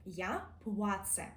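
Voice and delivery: «я плаце» said slowly with a hard ц; careful Polish demo, hard ц; hard Polish sounds. Shown as a demonstration. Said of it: "Ми досить твердо кажемо".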